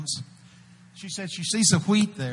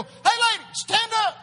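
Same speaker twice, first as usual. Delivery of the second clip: calling out to a lady. Retold or imitated. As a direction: call her out of the crowd. Preacher calling out to woman.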